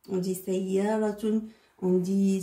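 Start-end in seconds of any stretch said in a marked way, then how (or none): 0.3-1.4 Sayyaratun with a light, thin S; teacher shows the light Sin in Sayyaratun. Shown as a demonstration. Teacher models the light S for the children. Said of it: "Sin, il est léger".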